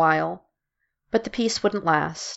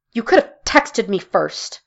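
snapping; 3 semitones higher, 4 dB louder than usual. Acted. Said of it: "Mara snapped".

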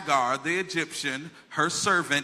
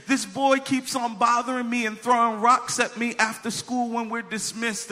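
lightly voiced upset little girl, higher pitch; complaining little sister; 4 semitones higher than usual. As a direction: imitate a child's run-on complaint. Retold complaint of crying little sister.

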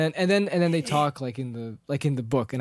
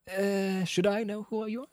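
puzzled Bilbo; 5 semitones higher, 4 dB quieter than usual. Retold or imitated. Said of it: "Bilbo's like".

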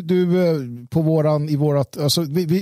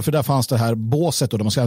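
ordinary talk, nothing marked

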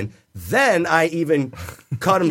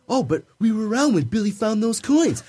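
casual high-voiced impression; mock higher-pitched guy talking; higher-pitched imitation; 5 semitones higher than usual. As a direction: imitate him with a lighter, higher voice. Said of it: "He's got a way higher pitched voice".

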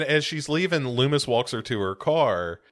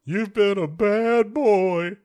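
slow, higher teasing scold; mock scolding; 8 semitones higher, much slower than usual. Mock scolding Michael, higher and slow. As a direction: tease him like a naughty child.

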